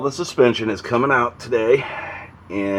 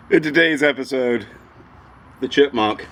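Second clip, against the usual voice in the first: silly high voice; 7 semitones higher than usual. Pretend. Silly catchphrase for the car.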